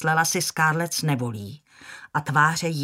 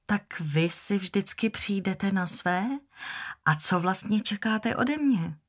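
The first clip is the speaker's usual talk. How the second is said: muted encouraging voice; 4 semitones higher than usual. Acted. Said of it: "zeptala se tlumeným hlasem plným povzbuzení".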